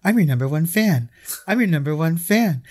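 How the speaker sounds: a hint of the cartoon baby doing Annie; Stewie as Annie. Co-host retells Family Guy parody, light Stewie voice. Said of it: "it's Stewie going".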